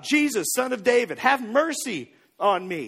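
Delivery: a restrained imitation of a man yelling; mild retold yell. Blind beggar calls out to passing Jesus, mild yell. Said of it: "he's yelling for Jesus".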